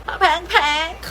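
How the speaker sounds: papeng-peng in a high cartoonish voice; silly high-pitched repeat of papeng-peng; playful echo. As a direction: squeak out papeng-peng with a rising end. Playful echo of her own word.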